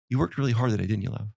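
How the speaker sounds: gently slowed, softening at the end; slow it down and connect with your partner; tender appreciation. Retold or imitated. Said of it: "the voice inflection, you slow it down".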